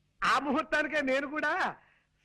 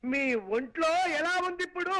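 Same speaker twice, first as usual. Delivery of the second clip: raised voice. Acted. Son-in-law repeats his question to the half-deaf mother-in-law, speaking up. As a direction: speak up so a deaf old woman hears. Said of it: "అంత గట్టిగా అరవకు నాయనా".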